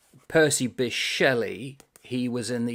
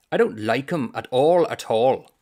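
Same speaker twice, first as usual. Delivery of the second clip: louder, complaining; mild Irish grumble; 8 dB louder than usual. Acted. The Irishman complaining to the author, louder grumble. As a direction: grumble about the legs, louder.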